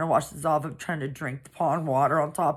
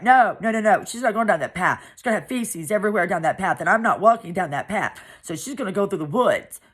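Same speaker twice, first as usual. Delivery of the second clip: higher and louder, a bossy refusal; mocking stepmother; 4 semitones higher, 5 dB louder, faster than usual. Cheryl refuses to let the barefoot girl use the path, bossy and loud. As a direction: play the spiteful stepmother refusing. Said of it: "she's like".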